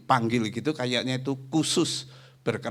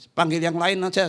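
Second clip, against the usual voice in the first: emphatic request; 7 semitones higher, 5 dB louder than usual. Retold or imitated. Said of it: "saya ngomong begitu".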